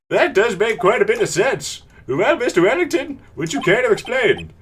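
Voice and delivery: lightly voiced old man judge; a hint of an old man judge; Master Roshi voice. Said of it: "my judge voice is just Roshi".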